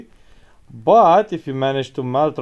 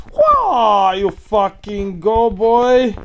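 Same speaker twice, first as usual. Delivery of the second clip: loud, high hype yell; 7 semitones higher, 6 dB louder, much slower than usual. Real, not acted. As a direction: cheer yourself on at the top of your voice. Hyping himself during a kill streak.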